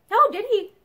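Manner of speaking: wry. A narrator's reading. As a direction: answer with dry irony. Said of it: "she said wryly".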